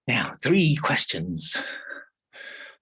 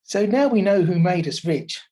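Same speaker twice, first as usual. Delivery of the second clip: louder, happy discovery; delighted wife; 4 semitones higher, 6 dB louder than usual. Acted. Wife telling shoemaker the secret, delighted. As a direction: announce it with glee. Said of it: "said the wife".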